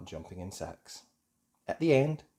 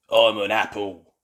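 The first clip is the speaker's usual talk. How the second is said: louder proud announcement; booming; 8 dB louder than usual. Acted. Mister Bull showing Peppa his painted face, booming. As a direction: boom it out. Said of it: "he booms".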